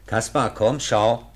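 loud coaxing call to Kaspar. Acted. Professor calling Kaspar to come look. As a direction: call him over, loud and clear.

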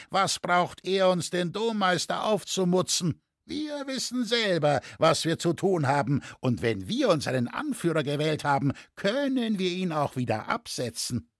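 high, defiant interjection; shouting in. A narrator's reading. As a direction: argue back against being bossed. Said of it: "schrie der Tuchscherer darein".

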